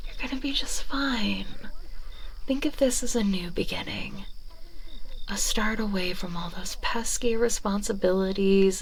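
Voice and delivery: whispered comfort, sweet and close; reassuring whisper. Acted. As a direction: lull them into a new life. Whispered reassurance to new familiar.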